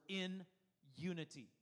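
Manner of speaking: "in", a pause, then "unity" falling; deliberate, spaced "in ... unity"; emphasis on IN UNITY. Shown as a demonstration. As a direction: mark "in unity" off as two separate words. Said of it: "they add a little emphasis word".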